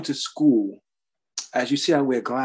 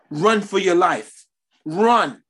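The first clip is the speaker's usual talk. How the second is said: slow, louder call to flee; urgent warning; 3 semitones higher, 3 dB louder, much slower than usual. Real, not acted. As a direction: preach it like an alarm. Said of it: "urging the congregation".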